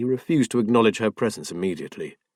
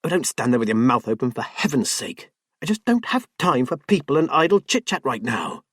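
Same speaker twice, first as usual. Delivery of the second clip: quick, raised, dismissive; impatient scolding. Acted. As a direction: brush him off sharply. Wife scolds husband, dismissive.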